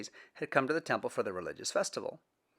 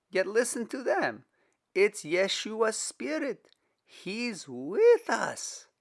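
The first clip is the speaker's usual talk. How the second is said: higher, louder and slow with wonder; awed; 9 semitones higher, 6 dB louder, slower than usual. Acted. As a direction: speak in awe of the Spirit. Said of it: "a note of awe in it".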